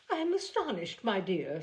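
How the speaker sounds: lightly voiced fussy mother; Mrs Bennet. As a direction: play the offended mother, pitch up. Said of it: "said Missus Bennet".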